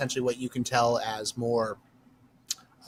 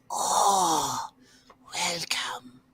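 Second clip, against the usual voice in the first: put-on older lady's airy, higher greeting voice; older innkeeper lady; 4 semitones higher, much slower than usual. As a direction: welcome them in a put-on old lady voice. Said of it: "older looking lady".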